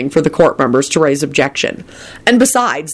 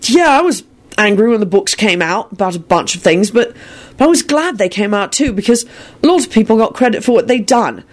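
heartfelt; 5 semitones higher than usual. Acted. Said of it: "speaking more from his heart".

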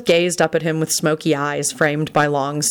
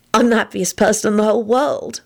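put-on happy young woman; 5 semitones higher than usual. A narrator's reading. Elizabeth's voice.

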